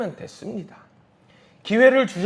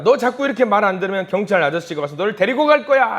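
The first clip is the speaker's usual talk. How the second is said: mildly acted parental threat, pitched up; warning parent; 5 semitones higher, 5 dB louder than usual. Parent threatening a child with the police, stern warning. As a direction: lay down an ultimatum, a touch raised. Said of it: "선전포고를 해요".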